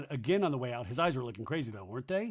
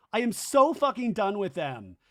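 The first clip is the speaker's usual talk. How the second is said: louder, higher mock outburst; imitated screaming; 5 semitones higher, 5 dB louder than usual. Zach screaming out his frustration, mock outburst. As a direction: vent it as a toned-down yell. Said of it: "He's screaming out".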